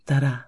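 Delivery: steady "Da-da" in an even heartbeat beat; heartbeat rhythm. Acted. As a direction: tap out one calm heartbeat. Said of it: "A heartbeat".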